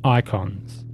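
measured, deliberate scene-setting; game master narration. A narrator's reading. Game master reveals a defiled room to the players, measured narration.

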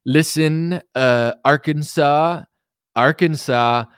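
lightly imitated rally flattery; a hint of a politician pausing for applause; Donald Trump. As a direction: work the crowd with spaced-out praise. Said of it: "When I listen to Trump talk, like, I notice".

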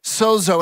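Sozo said clearly as SOH-zoh; Sozo, both syllables rhyming with "go"; Greek pronunciation. Shown as a demonstration. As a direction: pronounce Sozo with two long o sounds. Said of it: "it's pronounced sozo".

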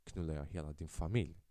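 low, quiet menace on the way out; a hint of the mob boss's parting shot; parting threat. Gang leader turning back to threaten the family, low and cold. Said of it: "när han säger".

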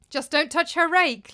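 too-loud teasing laugh; loud laughing jibe. Acted. Thorir mocks Thorgunna to the group, loud and laughing. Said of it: "laughed Thorir a little too loudly".

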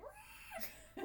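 high whining wah through laughter; mock dog whine, high; crying dog. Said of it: "He's like".

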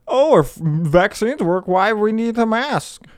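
dragged-out high imitation, dumb-sounding challenge; mock doubter. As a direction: mimic a dim skeptic's question. Mimics vaccine and mask doubters.

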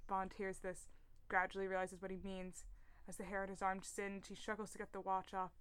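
soft, subdued screenplay narration; script reading. A narrator's reading. Podcast host reads Bond's struggle, subdued script reading. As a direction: read the action out quietly and evenly.

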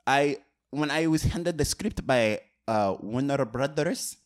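a light, hammed-up French accent. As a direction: play a self-important French director. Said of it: "I love your French accent".

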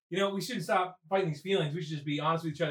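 low, soft acted sincerity; mock-intimate come-on. Hitting on Liz about fighting these feelings, mock-intimate. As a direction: drop low and quiet, confiding a crush.

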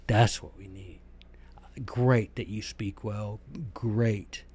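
slow, whispered mock praise; sarcastic whisper. Real, not acted. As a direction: whisper it dismissively.

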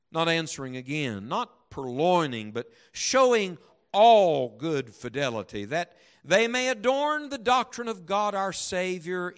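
slow, emphatic Bible reading; declaimed scripture, with deliberate pauses; solemn scripture reading. Acted. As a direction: read it out with weight, drawing out key words. Reads Scripture aloud emphatically.

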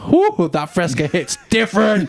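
slow, savoring soda ad read; commercial voice. Acted. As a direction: sell it like a summer drink ad. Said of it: "I could do a commercial for that".

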